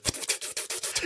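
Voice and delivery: quiet, voiceless animal noise; mock badger sputtering; imitated badger noise. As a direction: make a made-up badger sound under your breath. Imitates badger noise in broadcast background.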